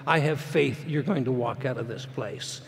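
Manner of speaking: doctor comforting his patient, softly; quiet reassurance. Retold or imitated. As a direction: reassure him gently.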